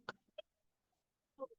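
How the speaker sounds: soft, very high crow; small distant-sounding rooster call. Acted. Teacher imitating a rooster in song, crowing. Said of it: "he always says".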